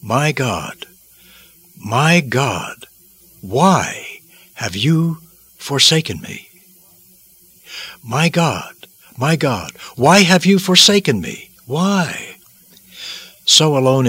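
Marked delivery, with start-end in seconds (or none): 0.0-6.5 slow, weighty cry of agony with long pauses; agonized lament. Acted. Christ on the cross calls to God, slow agonized lament. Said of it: "horrific pain he experienced caused him to utter". 8.0-12.4 anguished cry rising high on the question; agonized plea. Acted. Christ on the cross questions God, high agonized plea. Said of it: "horrific pain he experienced caused him to utter".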